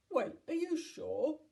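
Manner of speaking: big voice lifted in doubt; surprised giant. A narrator's reading. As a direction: ask in disbelief. Giant surprised at being praised.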